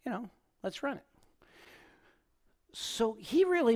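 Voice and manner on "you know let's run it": high, quick mock-eager agreement; a bright naive yes, lightly voiced; pitched up, playing the innocent runner. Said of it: "I'm like".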